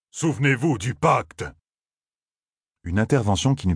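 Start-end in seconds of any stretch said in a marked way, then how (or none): 0.1-1.5 higher, slow imploring call; pleading cry. A narrator's reading. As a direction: remind them of the pact urgently. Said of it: "cria Loyal". (appel lent et suppliant)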